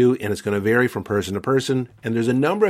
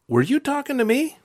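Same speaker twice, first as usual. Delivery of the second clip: high, feigned dumbfounded question; mock stunned disbelief. Answering an insult from someone, high mock surprise. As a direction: act baffled, as if surely not meant for you. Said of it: "kind of stunned".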